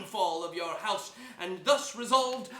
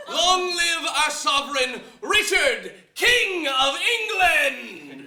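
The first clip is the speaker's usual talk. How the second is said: loud, higher, tearful cry of triumph; joyful acclaim; 5 semitones higher, 7 dB louder than usual. Acted. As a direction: hail the king with overflowing joy. Buckingham hails the new king.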